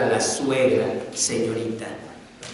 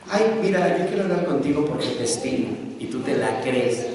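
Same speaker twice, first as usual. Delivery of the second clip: a hint of a nosy neighbor, hushed and fast; gossiping neighbor. Neighbor whispering rumors to a wife, quick mock gossip. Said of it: "Hasta una vecina".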